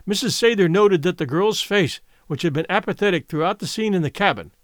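plain reading voice

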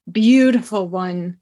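purring. Acted. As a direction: let "Beautiful one" purr out, lingering. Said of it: "she purred".

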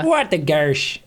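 put-on playful Minnesota-style accent; Midwest accent. Trading impressions with co-host, mock Midwest accent. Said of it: "my favorite American accent is a Midwest accent".

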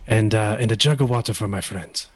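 put-on German accent, measured delivery; a hint of a German accent; Walter. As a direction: attempt a German-accented wrestler. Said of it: "I can't do a good Walter".

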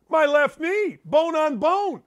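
usual speaking voice

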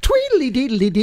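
lilting cartoon leprechaun nonsense. Husband slips out of Jamie into leprechaun voice. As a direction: trill it like a jigging leprechaun. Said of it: "now you're doing leprechaun".

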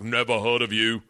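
lightly voiced accented bouncer; dismissive doorman with a put-on accent; a hint of a gatekeeping bouncer. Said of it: "And it's a bouncer".

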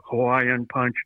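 slow robotic monotone. Retold or imitated. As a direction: deliver it like a stiff robot. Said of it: "in a robot voice".

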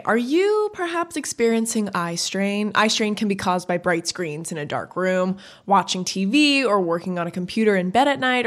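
upbeat podcast ad read. Acted. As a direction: sell it like a host-read ad. Reads a sponsor ad.

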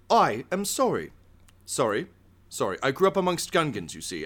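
lightly voiced chef, high then sinking; embarrassed apologetic chef. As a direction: recover your composure after a slip, sheepishly. Chef recovers from slipping into Gungan.

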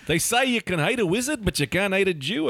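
put-on Scottish accent. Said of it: "It slips into Australian".

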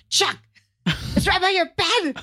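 high mock call up the stairs; retold yell. Wife retelling calling upstairs to her husband. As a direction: call up to him, lightly. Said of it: "I yelled up the stairs".

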